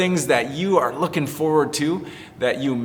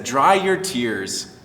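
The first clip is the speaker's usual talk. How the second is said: gentle comfort; much slower than usual. Acted. Elijah comforting crying widow.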